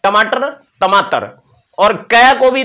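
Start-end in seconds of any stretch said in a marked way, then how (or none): 0.0-1.3 put-on first टमाटर with retroflex ट, then with dental त like a child; right then lisped. Shown as a demonstration. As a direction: show टमाटर correctly, then the toddler version. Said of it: "ट को त बोलेंगे".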